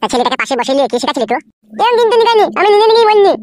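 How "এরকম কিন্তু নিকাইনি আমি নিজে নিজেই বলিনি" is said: higher and louder, yelling back at her; angry shout. Acted. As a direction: shout it out in a rage. Son shouts during quarrel.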